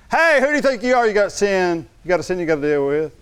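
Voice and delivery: high scolding devil voice, half-hammed; mock accusing devil. Preacher acting the devil scolding the one praying, high mock accusation. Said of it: "the devil talks like that".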